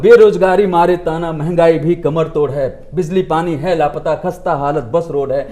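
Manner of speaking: low-pitched, spoken verse; reciting song lyrics. Shown as a demonstration. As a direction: recite your own lyrics line by line. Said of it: "जो गाने, क्योंकि मैंने लिखे हैं".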